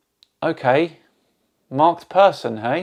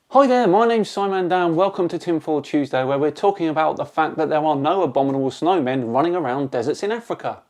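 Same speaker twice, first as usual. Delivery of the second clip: mock presenter intro; faster than usual. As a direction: put on a fake video intro to humour a heckler. Mock show intro on commenter's demand.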